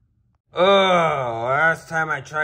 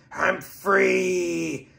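tearful relief. Acted. Freed from Coke, crying.

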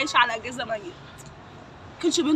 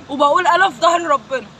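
louder, rising anger at the killers; angry defiance; 4 dB louder than usual. Real, not acted. Sister defying her brother's killers, loud and angry. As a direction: hurl it at them, furious and defiant.

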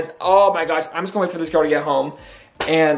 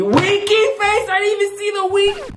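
squeaky reading. Real, not acted. Reading her flirty text aloud.

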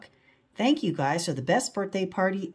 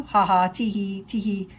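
giggling. Acted. Laughing at Reggie's embarrassment.

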